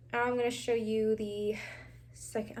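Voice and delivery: slightly winded speech; out of breath. Real, not acted. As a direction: talk a little short of breath. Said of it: "I don't know why I'm so out of breath".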